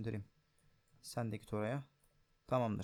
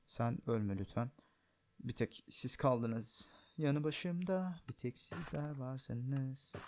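tender; much slower than usual. Pretend. Tenderly pleading with his golems.

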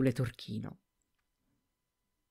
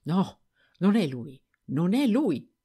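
rising, louder denial; protesting; 3 semitones higher, 4 dB louder, slower than usual. A narrator's reading. Servant denying to her master, rising louder protest. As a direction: insist more and more. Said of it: "Protestò".

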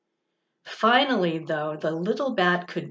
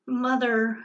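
lightly squeaked; 3 semitones higher than usual. Acted. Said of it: "Stella Luna squeaked".

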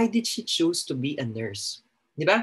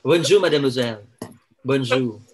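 a hammed-up French accent on "Bonjour, mademoiselle"; play-acting a Frenchman for the class; 3 semitones lower, 4 dB louder than usual. Shown as a demonstration. Teacher shows the class her French, in a mock French accent. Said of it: "Anong alam mong French?".

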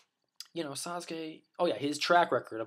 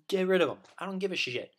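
mock villagers; 6 semitones higher than usual. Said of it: "They're just like".

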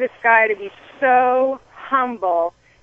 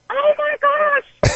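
much higher, slow and drawn out, awestruck; freaking out; 4 dB louder, much slower than usual. Retold or imitated. Realizing the airport stranger won Boston, in slow, high, amazed shock. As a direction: let it stretch out in amazed shock. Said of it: "So I am freaking out".

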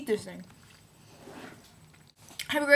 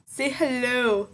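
coaxing; 6 dB louder, much slower than usual. Real, not acted. Coaxing little sibling to greet.

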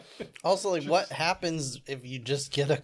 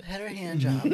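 breaking into a laugh on the quote; can't keep a straight face; laughing through it; 3 semitones higher than usual. Retold or imitated. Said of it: "the stewardess is coming down like".

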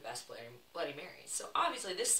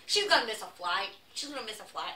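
high, hammed-up Boston accent; badly faked Boston bar-guy voice; attempted Boston accent; 7 semitones higher, 10 dB louder than usual. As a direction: imitate a loud Bostonian, not quite landing it. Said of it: "I can't do the accent".

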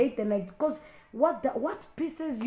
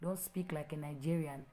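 quiet reproach; 5 semitones lower, 7 dB quieter than usual. Real, not acted. Pastor softly reproaching the commenter.

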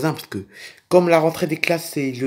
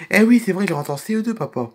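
lightly voiced child, starting higher; child Peggy; 5 semitones higher than usual. Child telling papa about school, lightly voiced child. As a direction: answer papa as a child would.

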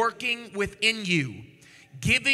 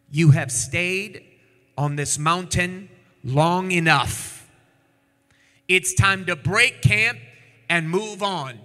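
voice of God; 5 dB louder, slower than usual. Acted. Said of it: "the Lord our God said to us".

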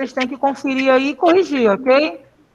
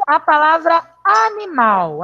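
word presented slowly; 3 semitones higher, slower than usual. Shown as a demonstration. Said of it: "qual a sílaba tônica dela?".

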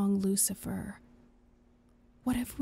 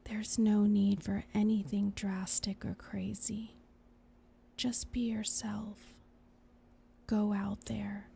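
reassuring whisper. Acted. Angel soothing whisper.

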